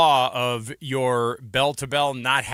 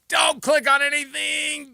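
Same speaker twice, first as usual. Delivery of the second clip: higher, slow, emphatic warning to his son; urgent warning; 11 semitones higher, slower than usual. Retold or imitated. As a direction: stress DON'T, drawn out in alarm. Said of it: "I'm like".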